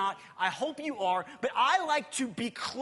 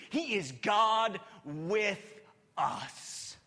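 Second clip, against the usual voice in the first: slow shout falling to a breathy whisper; shouted climax fading to hush; rising shout; much slower than usual. Acted. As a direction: build it big then drop to a breath. Preacher's climax.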